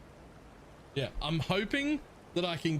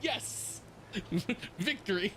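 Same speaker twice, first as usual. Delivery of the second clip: high, laughing little cheer to himself; excited cheer; 8 semitones higher, 3 dB quieter, slower than usual. Retold or imitated. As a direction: replay the moment of triumph, much higher, with a laugh. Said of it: "And I was like".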